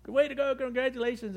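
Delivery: hearty guide congratulating his client; cheering guide. Retold or imitated. Fishing guide cheering him on.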